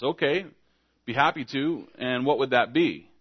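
mock eager-to-please confusion; puzzled compliance. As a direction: play someone agreeable but baffled by the order. Acting a priest answering a vague command.

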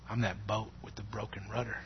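very soft, low-key eerie murmur; imitating a creepy, hushed remark; sinister confiding. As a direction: lean in close and say it very quietly, to unsettle. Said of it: "the way he said that".

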